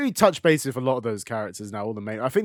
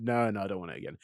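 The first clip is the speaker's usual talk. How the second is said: put-on toddler energy; 7 semitones lower, 9 dB quieter, much faster than usual. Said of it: "It's like, it's like toddler energy".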